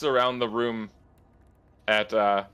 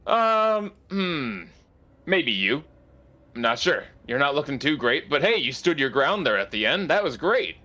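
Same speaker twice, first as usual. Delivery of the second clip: lightly voiced npc. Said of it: "He looks at you and says".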